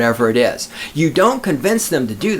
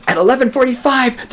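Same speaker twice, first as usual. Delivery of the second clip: mock gasp; 9 semitones higher than usual. Mock gasp at privilege walk.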